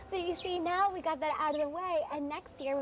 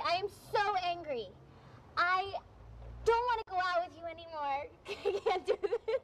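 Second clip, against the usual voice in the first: put-on girlfriend hamming up being mad for the movie; acted anger; 3 semitones higher than usual. Girlfriend acting mad at cheating boyfriend for the film, mock anger. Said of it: "don't you want my movie to be good".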